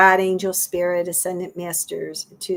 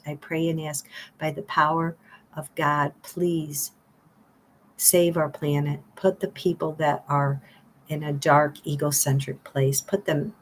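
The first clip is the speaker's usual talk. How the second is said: earnest prayer; 2 semitones lower than usual. Acted. Voices the prayer again.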